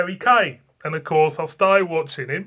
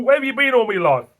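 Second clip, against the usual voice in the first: higher and louder, savouring each word; gushing exclamation; 7 semitones higher, 7 dB louder than usual. Retold or imitated. To a newly discovered beer, a gushing louder higher cry. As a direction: declare your love to a beer. Repeats the line with gusto.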